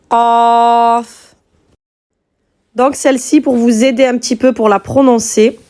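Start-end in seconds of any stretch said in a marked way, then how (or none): 0.1-1.3 "Qaf" avec un Q profond au fond de la gorge; Qaf guttural. Shown as a demonstration. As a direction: lancer "Qaf" du palais mou, Q arabe sourd. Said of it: "comment je la prononce". (Q profond, langue contre le palais mou)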